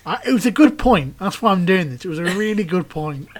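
laughing through flustered words; embarrassed laugh while speaking. Real, not acted. Flustered after losing his train of thought.

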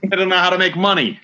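high mock scandalized grumble; mock old grump. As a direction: scold the kids like a cranky elder. Mock rant continues.

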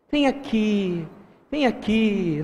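hushed, beckoning call; soft coaxing. Acted. Preacher playing Jezabel calling someone over, softly coaxing. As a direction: lure them closer gently.

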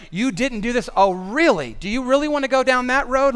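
lightly acted indignant comeback; mock marital quarrel. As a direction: play a spouse firing back in an argument. Acted spousal argument.

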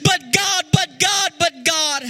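half-sung preaching rising over the music; impassioned preaching. Acted. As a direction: preach it like a song, building up.

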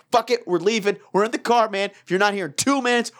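exasperated retold voicemail; retold angry ultimatum. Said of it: "getting more and more angry".

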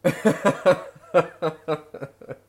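bright burst of laughter. Real, not acted. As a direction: laugh out loud at the joke. Laughing at the joke.

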